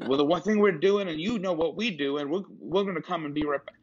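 laughing, rambling TV host parody; mock rambling host. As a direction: stumble through it like a flustered host. Imitating Whoopi's clumsy segue.

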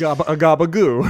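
hammed-up Italian accent, loud and high; a bad cartoon Italian accent; mock Italian accent. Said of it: "really bad Italian accent".

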